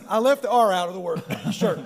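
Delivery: coughing while talking; broken up by coughs mid-sentence; choked up. Real, not acted. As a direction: struggle to get it out between coughs. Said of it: "I'm getting choked up".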